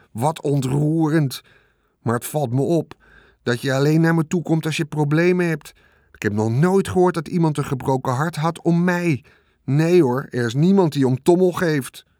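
a rat milking his grievance; sarcastic rat. Acted. The rat sneering at Wilbur, sarcastic self-pity.

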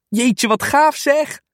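hoog en traag uitgerekt van verbazing; verrukt. Acted. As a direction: laat het 'gaaf' stralen. Kind hoort van hondenfeest. (kind is verrukt over het hondenfeest)

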